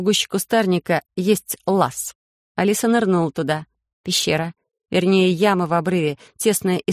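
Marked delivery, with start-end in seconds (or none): none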